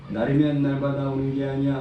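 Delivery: lightly imitated street hawker patter on a level monotone; half-hearted sales pitch of a travelling peddler; medicine peddler. Preacher mimicking a medicine seller's pitch, lightly imitated peddler. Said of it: "제가 흉내도 잘 못 내겠어요".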